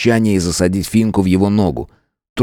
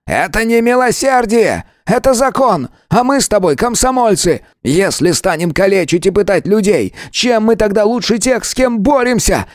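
much higher, fiery shout; heated outburst; 13 semitones higher than usual. A narrator's reading. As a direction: yell it in his face. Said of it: "запальчиво выкрикнул мне в лицо". (запальчиво, выкрикивая)

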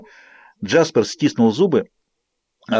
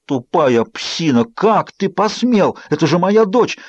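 angry; 6 semitones higher, slower than usual. Acted. Bella furious at Jacob.

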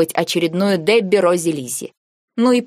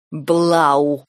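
exhaled through teeth; 3 semitones lower than usual. A narrator's reading. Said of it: "наконец выдохнул он, скрипнув зубами".

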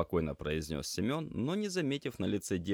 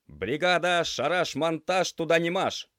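higher, louder, slow and proud slogan; proud announcement; 12 semitones higher, 9 dB louder than usual. Acted. Semyon proudly names their work crew to the girl, slow and louder. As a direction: announce the crew name like a banner motto. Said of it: "с гордостью произнёс Семён".

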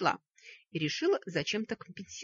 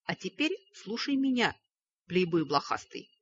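angry. Acted. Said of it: "гневно сверкнул глазами".

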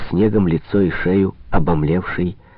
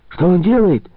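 high, loud but timid call from the dark; timid hunchback's call; timid shout; 10 semitones higher, 4 dB louder than usual. A narrator's reading. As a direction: call out hesitantly from the crowd. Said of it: "несмело выкрикнул из тьмы горбун Лука".

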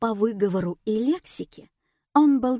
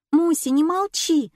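demanding; 8 semitones higher, 4 dB louder than usual. A narrator's reading. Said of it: "потребовала Маня".

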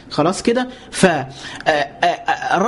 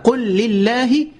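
slow recitation; 3 semitones higher, much slower than usual. Shown as a demonstration. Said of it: "قل، الرد بقى".

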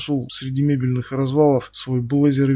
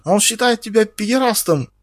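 much higher, louder tattling cry; shrill accusation; 8 semitones higher, 4 dB louder than usual. Acted. Ксюша визгливо жалуется Феликсу на Стаса. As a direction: blurt it out to Felix.

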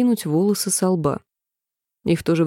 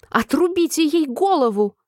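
much higher furious scream; raging shout; 8 semitones higher than usual. A narrator's reading. Queen screams at the court to behead Alice. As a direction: order the beheading in a rage. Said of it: "закричала королева в ярости".

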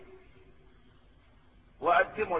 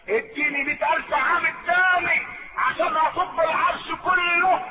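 angel's lament; 7 semitones higher than usual. Acted. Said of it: "قال لها".

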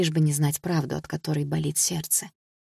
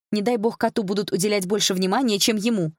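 higher, annoyed sarcasm; irritated; 4 semitones higher than usual. A narrator's reading. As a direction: scoff with irritation, pitch raised. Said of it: "раздражённо фыркнула я".

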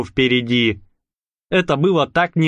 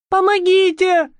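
screaming. Acted. Marusya crying for help on the ground, mock yell. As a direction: call out for help in panic. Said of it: "со всей мочи заорала Маруся".

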